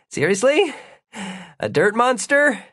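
high, incredulous questions between breaths. A narrator's reading. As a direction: catch your breath, pitch leaping up in disbelief. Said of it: "catching his breath".

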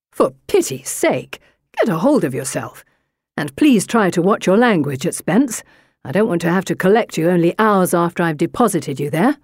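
exasperated brother voice with swooping pitch; scolding brother. A narrator's reading. Brother lecturing his sister in the carriage, exasperated. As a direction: tell her off, hurrying by the end.

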